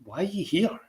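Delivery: high, incredulous retort; exasperated disbelief. Retold or imitated. Retelling his reply to a moaning coworker, exasperated. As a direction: squeal it out, fed up and baffled. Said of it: "And I was like".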